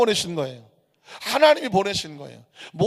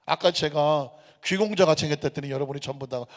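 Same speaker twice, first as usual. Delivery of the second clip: ordinary talk, nothing marked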